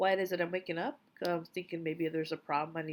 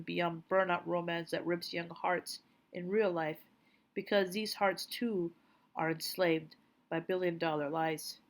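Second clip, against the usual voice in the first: poem reading. Acted. Reading her poem for Jay about our children, measured poetry recital. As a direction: read it line by line with pauses. Reads own poem aloud.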